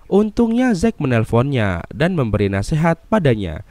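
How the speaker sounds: dramatic movie recap narration; narasi alur film. Acted. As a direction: narrate the plot in lively, swinging tones. (narasi rekap film yang dramatis)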